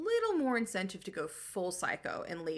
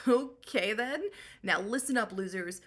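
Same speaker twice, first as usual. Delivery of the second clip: unimpressed queen; 2 semitones higher, 4 dB louder than usual. Retold or imitated. Penelope addressing suitors.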